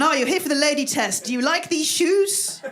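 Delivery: mock doctor voice. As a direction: play a chirpy doctor asking, lilting upward. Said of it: "the doctor going".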